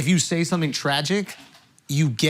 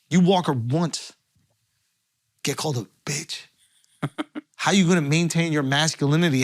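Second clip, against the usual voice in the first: hyped sponsor ad read. Acted. Host hyping the sponsor to his co-hosts, pitchman ad read. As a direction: sell it like a late-night hype man.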